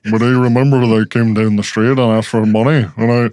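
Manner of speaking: mock Irish accent, testimony style; Irish-accented disguised witness; Irish IRA documentary voice. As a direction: put on an Irish documentary interviewee. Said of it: "documentary about the I R A voice".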